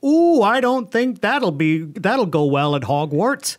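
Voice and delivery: slow, plummy mock British accent, badly done; a clumsy British accent for a Hogwarts joke; a British accent, hammed up and failing. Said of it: "That was not a good accent".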